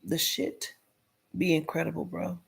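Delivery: hushed, the shit be incredible; whispered remark. Real, not acted. Marvelling quietly to his viewers in a whisper. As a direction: breathe it out in disbelief.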